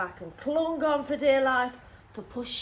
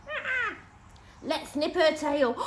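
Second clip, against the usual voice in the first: high, louder bird cry; screeching magpie; 4 semitones higher, 5 dB louder, slower than usual. Acted. Magpie screaming at the cat, high and loud.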